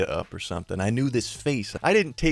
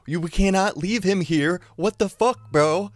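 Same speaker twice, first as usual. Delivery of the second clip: higher and louder, half laughing alarm; urgent protest; 8 semitones higher, 4 dB louder than usual. Retold or imitated. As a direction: push him to turn the car around. Pleading with driver to return.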